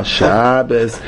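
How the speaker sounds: "Shabbos" with a long, leaned-on first vowel; stress first vowel. Shown as a demonstration. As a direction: lean into the first syllable of "Shabbos". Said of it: "a lot of emphasis on that first vowel".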